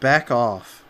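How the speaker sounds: mock aggressive. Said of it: "that was aggressive".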